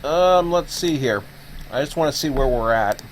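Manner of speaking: talking with mouth full; words round a bite of snack. Real, not acted. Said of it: "while I talk with my mouth full".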